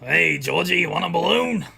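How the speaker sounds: put-on creepy clown coaxing a child; lightly voiced sinister clown; Pennywise. Planning to prank call Necro, lightly creepy clown. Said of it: "doing Pennywise".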